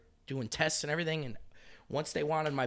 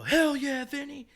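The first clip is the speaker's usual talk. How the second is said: mock cheer; 13 semitones higher, 7 dB louder, slower than usual. Skaters cheering at bonfire.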